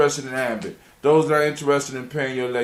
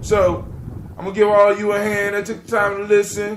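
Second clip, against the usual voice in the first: loud, higher, hyped farewell to the audience, slowing at the end; excited sign-off; 9 semitones higher, 6 dB louder than usual. Real, not acted. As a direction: send the listeners off with a big cheer.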